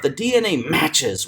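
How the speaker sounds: "matches" punched; stress on MATCHES. Shown as a demonstration. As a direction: hit the word "matches". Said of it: "What word is he gonna stress".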